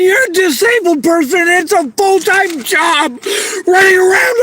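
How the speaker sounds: shouting her despair through tears; real tearful yelling. Real, not acted. Homeless woman venting to the camera, real tearful yelling. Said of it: "I'm sorry I'm not yelling at you".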